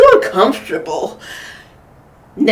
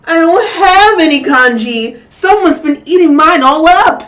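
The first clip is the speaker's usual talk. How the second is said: put-on higher, louder childlike wail; a mock wail of loss; 7 semitones higher, 8 dB louder than usual. A narrator's reading. Little Chan wailing over his missing congee. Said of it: "Little Chan wailed".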